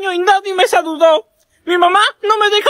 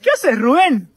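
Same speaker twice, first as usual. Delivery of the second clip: mock sad; 5 semitones lower than usual. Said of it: "¿Por qué tan triste".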